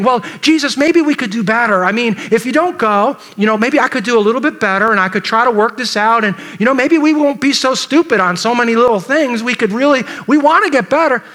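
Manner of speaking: mock pleading, pitch creeping up; acted bargaining. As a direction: bargain eagerly, as if talking him round. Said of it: "You can imagine the bargaining".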